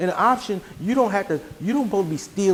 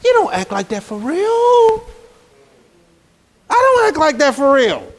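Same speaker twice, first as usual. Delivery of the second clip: preaching louder; 6 semitones higher, 5 dB louder than usual. Real, not acted. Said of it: "back to own voice".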